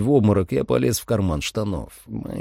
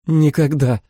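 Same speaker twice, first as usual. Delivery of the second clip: firm refusal; 7 semitones higher, 4 dB louder than usual. A narrator's reading. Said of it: "уверенно отрезала Джулия".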